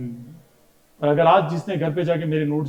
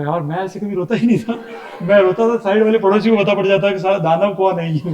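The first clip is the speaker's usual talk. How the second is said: laughing through it, a bit louder; laughing retelling; 2 semitones higher, 4 dB louder than usual. Retold or imitated. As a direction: joke about own loud crying, laughing. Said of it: "मैंने कहा". (हँसते हुए सुनाना)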